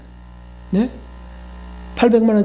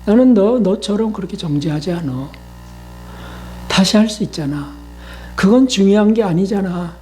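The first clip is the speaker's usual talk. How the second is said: reassuring Lord. Retold or imitated. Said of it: "이 주님이 하시는 거예요".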